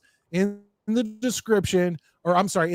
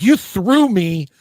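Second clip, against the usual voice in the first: mock vengeful kid; 5 semitones higher, 4 dB louder than usual. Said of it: "He was like".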